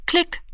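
very high, short click; dial click. A narrator's reading. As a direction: snap out a little click sound. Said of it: "machte es". (hohes kurzes Klicken)

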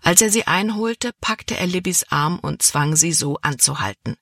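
ordinary delivery

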